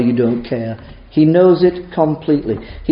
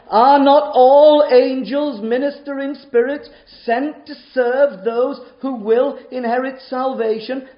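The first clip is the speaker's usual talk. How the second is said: scripture reading; 5 semitones higher than usual. Shown as a demonstration. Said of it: "I'm quoting it verbatim".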